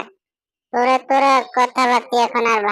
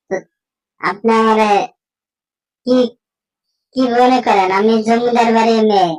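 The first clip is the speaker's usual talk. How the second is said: haughty daughter-in-law. Acted. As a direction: talk back to the mother-in-law like a spoiled landlord's daughter. Haughty daughter-in-law answers mother-in-law. (জোরে, অহংকারী পুত্রবধূর গলা)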